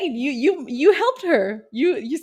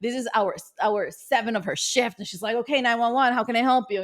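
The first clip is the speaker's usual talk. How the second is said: tired operator. Pretend. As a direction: sound tired at the end of a long shift. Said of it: "she's tired, she's done".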